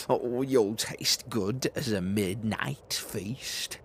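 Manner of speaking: loud, then greedy and gloating; the little monster eyeing a snack; bold child. Acted. Gruffalo's child eyeing the mouse as a feast.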